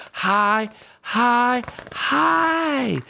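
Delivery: rising sing-song high; climbing high. Acted. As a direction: climb up the scale with the crane. Crane rising to the sky.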